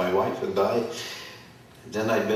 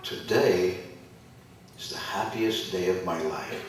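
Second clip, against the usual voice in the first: quiet inner thought; 6 dB quieter than usual. Retold or imitated. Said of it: "I thought".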